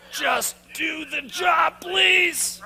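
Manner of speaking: high, slow, laughing mock plea; mock exasperated plea. Sales trainer mocking workplace frustration, exasperated plea. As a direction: beg sarcastically to be left alone to work.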